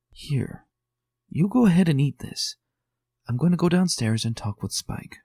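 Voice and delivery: a touch of gentle reassurance, lightly voiced Twilight; a hint of a comforting smile, kindly offering the food. A narrator's reading. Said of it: "her words coming with a comforting smile".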